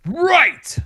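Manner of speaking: surprised. Real, not acted. Catches the slogan's wrong meaning.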